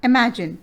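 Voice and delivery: "imagine" sounded out in three syllables. Shown as a demonstration. Teacher gives a syllable-counting example, syllable by syllable. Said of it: "three syllable".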